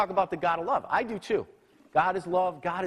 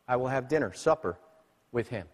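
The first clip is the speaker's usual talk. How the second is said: gentle invitation; 3 semitones lower than usual. Acted. Quoting Jesus gently.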